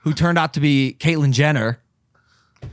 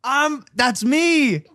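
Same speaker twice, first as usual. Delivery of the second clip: retold insistence; 10 semitones higher, slower than usual. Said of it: "I go, I go".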